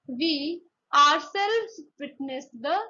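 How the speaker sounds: "ourselves" slow and weighted; emphasis on OURSELVES. Shown as a demonstration. Teacher illustrating emphatic pronouns, slow stress on "ourselves". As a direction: linger on "ourselves" to underline it.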